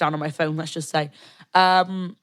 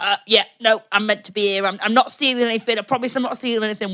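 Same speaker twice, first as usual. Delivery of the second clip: nervous goblin; 4 semitones higher, 4 dB louder than usual. Retold or imitated. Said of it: "being like".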